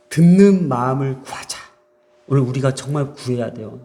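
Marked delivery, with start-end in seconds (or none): 0.1-1.6 louder voiced exhortation, 듣는 stressed; rousing preacher's call; firm call. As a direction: proclaim 듣는 마음을 구하자 aloud with a push on 듣는. Sermon key line, repeated.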